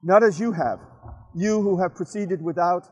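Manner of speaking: measured recital in short phrases with pauses; deliberate, lightly declaimed verse; poem reading. Acted. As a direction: read it as your own poem, addressed to a friend. Reads own poem aloud.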